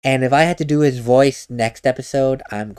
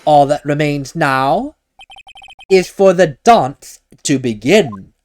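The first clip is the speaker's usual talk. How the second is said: slow, grand villain monologue; bombastic Atmey voice. Acted. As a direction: savour every word, slowly. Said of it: "the bombastic voice for Atmey".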